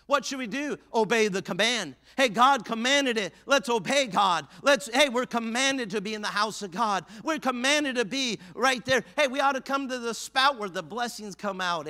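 high, driving sermon cadence; full-force preaching. Real, not acted. Preacher telling congregation why they gather, full-force preaching. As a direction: hammer each phrase in a rising preacher's refrain.

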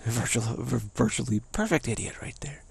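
whisper. Retold or imitated. Mock praise, whispered.

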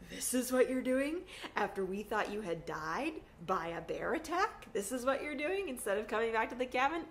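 laughing disbelief that speeds up; incredulous laughing. Retold or imitated. A teen finding mom at a campfire, asking her in laughing disbelief. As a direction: laugh it out in exasperation. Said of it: "And I'm like".

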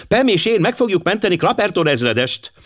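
put-on high, eager girlish announcement; excited girl. A narrator's reading. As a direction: announce the plan in a high girl's voice. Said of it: "kiabálta Kitty Mooney". (magas, lelkes lányhang)

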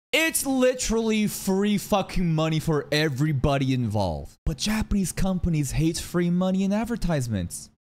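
high, mock-baffled exasperation; exasperated rant. Real, not acted. Reactor on companies refusing free money, exasperated high rant. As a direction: pitch it up in disbelief at the absurdity.

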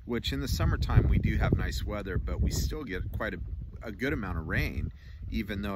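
talking around pipe stem; pipe in mouth. Real, not acted. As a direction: pipe clenched in teeth. Seen 4: Pipe stem held in mouth corner often, removed at times.

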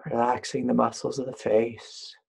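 unhurried meditation guide, long pauses between phrases; guided meditation. Real, not acted. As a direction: lead listeners gently, leaving room to breathe.

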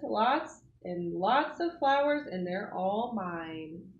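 drawn-out, savouring each word; slow gloat. Acted. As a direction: gloat slowly over the flowers. Greedy bee gloating.

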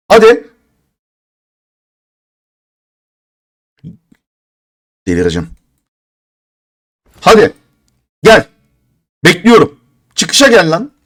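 loud, high urging at the screen; calling out impatiently. Real, not acted. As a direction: call the item out like daring it. Begging the crate for a drop. (sabırsızca bağırarak çağırma)

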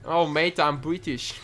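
joking attempt at a British accent; mock Brit that slips towards Australian. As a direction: put on a wobbly British accent. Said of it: "That was Australian, right?".

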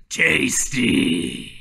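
drawn-out bear voice; lightly voiced hungry bear, stretched out; roaring bear. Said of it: "the bear roars and says".

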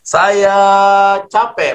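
high called-out "capek"; mock shout. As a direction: shout it at the cliff. (teriakan tinggi pura-pura)

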